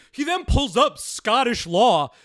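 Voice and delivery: prissy parody of the YouTuber's narration; mocking his way of talking. Imitating the YouTuber's narration, in a mocking prissy voice. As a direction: imitate his smug delivery with scorn. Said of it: "Listen to how he's talking".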